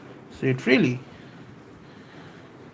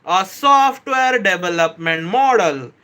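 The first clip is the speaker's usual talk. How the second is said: same phrase said slower and more spaced out; slowed-down explanation. Shown as a demonstration. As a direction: ease off the pace on each word. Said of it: "I'm gonna slow down".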